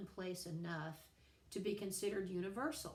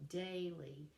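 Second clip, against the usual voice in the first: "daily" with the stress on DAI; stress on first syllable. Shown as a demonstration. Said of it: "with a stress on the first one".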